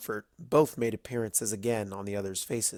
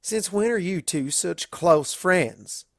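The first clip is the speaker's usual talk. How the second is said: higher, slow suspicion; slow high wary farmer; suspicious question; 6 semitones higher, 3 dB louder, slower than usual. A narrator's reading. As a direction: probe it suspiciously. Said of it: "Applejack asked suspiciously".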